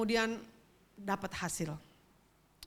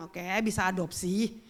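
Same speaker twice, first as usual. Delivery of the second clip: mock singsong voice; 5 dB louder than usual. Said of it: "mungkin kamu akan bilang".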